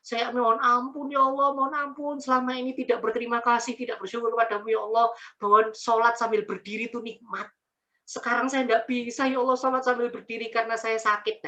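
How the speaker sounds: imitated tearful begging for forgiveness; retold tearful prayer. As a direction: re-enact weeping to God in remorse. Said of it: "saya langsung nangis".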